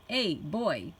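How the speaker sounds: lightly voiced American redneck call; a mild redneck holler, no real volume; redneck yell. A narrator's reading. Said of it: "his all-American redneck voice, he yelled".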